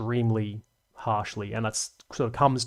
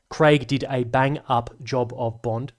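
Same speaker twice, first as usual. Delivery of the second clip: careful retry; slower than usual. Real, not acted. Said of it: "Stop stuttering".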